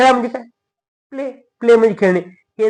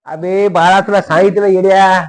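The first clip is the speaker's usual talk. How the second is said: scolding yell; 2 semitones higher, 6 dB louder than usual. Acted. Teacher to a pupil asking for a repeat, exasperated scolding. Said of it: "किती वेळा सांगतो ओरडू".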